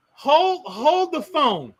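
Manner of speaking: slow, drawn-out "hold the phone"; dramatic slow repeat. Shown as a demonstration. Spotting the cage in the host's house, slow mock disbelief. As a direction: stretch each word out in disbelief.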